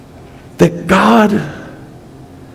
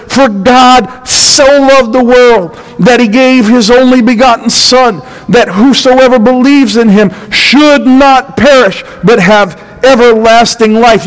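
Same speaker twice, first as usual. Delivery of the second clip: scripture reading. Shown as a demonstration. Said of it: "It says".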